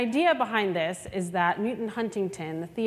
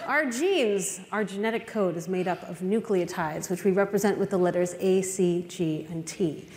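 lightly put-on TV reporter. Reporter explaining genetics to the audience, light reporter voice. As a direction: deliver it like a special news report. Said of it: "talk in this reporter voice".

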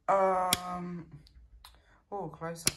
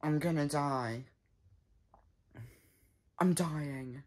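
low, soft, sinking moan; mock dying; 5 semitones lower, 5 dB quieter than usual. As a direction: fade away as if dying. Play-acting dying.

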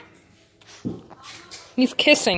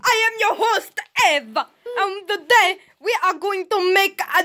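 cooking show host; 4 semitones higher than usual. Pretend. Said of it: "welcome to Ava's Cooking Show".

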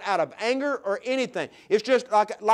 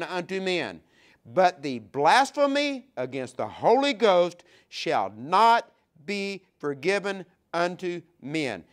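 scripture reading. Acted. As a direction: lean on each verse, solemn and strong. Reads Jesus' words aloud.

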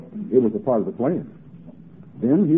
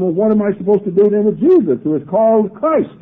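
lightly acted Pilate, louder and higher; questioning Pilate; 8 semitones higher, 6 dB louder than usual. Pilate asks what to do with Jesus, lightly acted raised questioning. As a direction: put a raised, exasperated question to the crowd.

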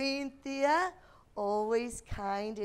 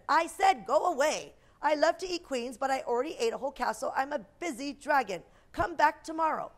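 grumpy dragon; 3 semitones higher, 5 dB louder than usual. Acted. Grumpy dragon repeats his refusal.

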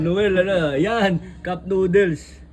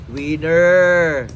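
excited shout; 11 dB louder than usual. Real, not acted. Announcing the winning dish.

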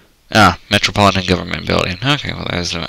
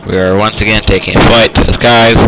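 pilot announcement; 7 dB louder than usual. Pretend. Announcer bit resumes, loud.

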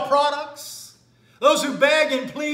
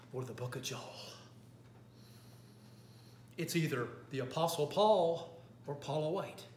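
low, hushed sermon voice; quiet preaching; 8 semitones lower, 9 dB quieter than usual. Acted. Preacher naming the false Palm Beach Gospel, hushed and low. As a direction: drop it down and draw them in.

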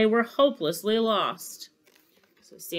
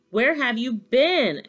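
higher, slow, drawn-out question; mock scolding; 6 semitones higher, 7 dB louder than usual. A narrator's reading. Santa questions the late young reindeer, mock scolding. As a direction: demand it with exaggerated slowness.

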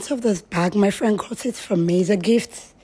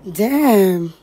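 punchy Black American exclamation; Black American accent; 5 dB louder than usual. Shown as a demonstration. Guest showing her accent to interviewer on request, Black American accent. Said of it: "say damn".

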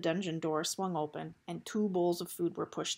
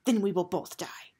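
a touch of anger, louder; angry; 5 dB louder than usual. A narrator's reading. Eris angry at Gregor's refusal, louder retort. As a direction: snap it back at him. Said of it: "Eris said angrily".

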